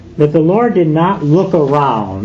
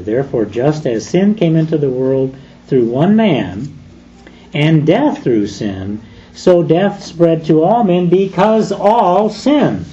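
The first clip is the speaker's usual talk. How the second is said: scripture reading; 4 semitones higher than usual. Acted. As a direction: read the verse with solemn weight. Quotes a Bible verse.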